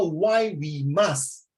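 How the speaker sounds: slow, deliberate "why we must", weight on "we"; stress on "we". Shown as a demonstration. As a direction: spell out "we" before "must" with emphasis. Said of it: "You emphasize mu-, ourselves first".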